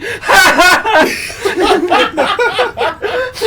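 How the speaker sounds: high, loud pointing laugh; mocking laugh. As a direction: laugh right at him. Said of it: "points at the guy and he's like".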